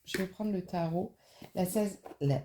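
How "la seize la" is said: lisping on the s sounds; soft lisped s in seize. Real, not acted. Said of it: "je zozote aujourd'hui".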